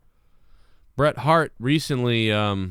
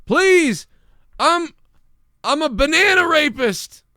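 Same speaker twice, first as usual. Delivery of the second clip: squeaky, much higher, louder silly voice; weird plea; 6 dB louder, slower than usual. Pretend. Driver answering a road rager, squeaky silly plea. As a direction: act unhinged to throw off the rager. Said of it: "just be like".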